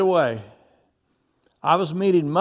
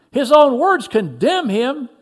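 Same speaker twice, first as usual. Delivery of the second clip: high, slow, loud condemnation; shouted accusation; 6 semitones higher, 5 dB louder than usual. A narrator's reading. Another accuser in the crowd, shouted slowly. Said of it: "shouted another".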